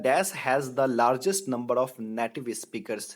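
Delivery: slow, deliberate question reading; quiz reading. Shown as a demonstration. Teacher reading a quiz question slowly to the class. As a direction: spell out the question slowly for students.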